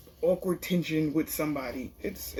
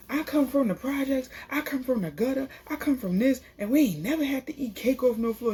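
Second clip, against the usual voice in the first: imitated indignant rant, pitched higher; mad; 6 semitones higher than usual. Medina arguing back and forth with his cousin, mad. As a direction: chant each claim high, as if retelling a heated argument. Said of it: "why Medina's so mad though".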